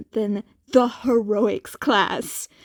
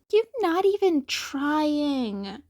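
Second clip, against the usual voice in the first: deadpan; 5 semitones higher than usual. Acted. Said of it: "Izukun deadpan".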